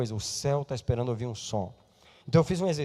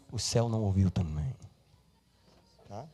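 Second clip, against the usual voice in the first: ordinary talk, nothing marked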